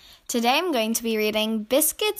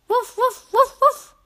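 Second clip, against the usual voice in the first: high playful puppy woofs; puppy barking; 12 semitones higher, 9 dB louder, slower than usual. Pretend. Narrator voicing Biscuit the puppy for kids, high woofs. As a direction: bark like a happy little puppy.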